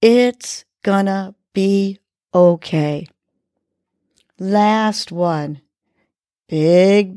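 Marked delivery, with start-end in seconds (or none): 0.0-3.1 smiling. Shown as a demonstration. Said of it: "smiling and believing".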